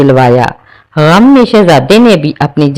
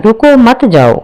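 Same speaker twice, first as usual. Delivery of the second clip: pleading cry; 6 semitones higher than usual. Acted. Mahreen begs vanishing ghost.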